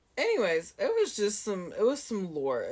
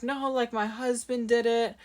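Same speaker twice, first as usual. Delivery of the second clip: a mild, higher-pitched mock of a tearful woman; imitating crying customer; 5 semitones higher than usual. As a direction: lightly play the upset shopper pleading. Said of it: "She starts crying".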